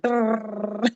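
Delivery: rolling "brrrr" noise; trilled brrrr. Retold or imitated. Actress showing a director's endless credits scrolling, trilled brrrr. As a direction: imitate a long list whirring past. Imitating scrolling down long IMDb page.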